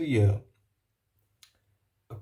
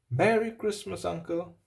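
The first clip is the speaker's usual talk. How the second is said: bright, higher mock-cheery nephew; cheerful greeting; 5 semitones higher than usual. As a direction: call it out happily to your uncle. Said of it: "cried a cheerful voice".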